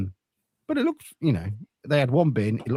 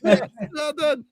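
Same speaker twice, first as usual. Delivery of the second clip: sarcastic praise; 13 semitones higher, slower than usual. Pretend. Sarcastic high slow praise.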